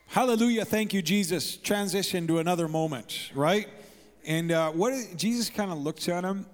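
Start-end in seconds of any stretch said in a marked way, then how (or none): 0.1-1.6 higher, louder mock praise burst; generic hallelujah. Guest breaking an awkward silence, mock generic praise. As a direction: toss out a stock church exclamation with gusto. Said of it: "It's kinda like a generic".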